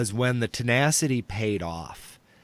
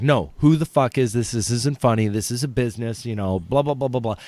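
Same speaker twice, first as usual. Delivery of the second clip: mildly aggressive, imitated comeback; retold aggression; faster than usual. Business owner challenges a prank caller, mildly aggressive. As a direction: push back with a touch of mock anger. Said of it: "she'd come back ten times more aggressive".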